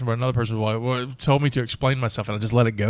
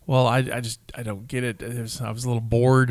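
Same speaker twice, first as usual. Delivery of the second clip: quiet, slightly lowered imitation of a friend; unimpressed friend; 3 semitones lower, 5 dB quieter than usual. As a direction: lightly voice a mildly bored friend, softly. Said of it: "my friend was like".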